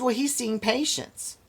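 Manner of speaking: high, breezy nurse brushing him off; nurse's dismissive voice. Retold or imitated. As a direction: toss it off like an unbothered nurse. Quoting the nurse.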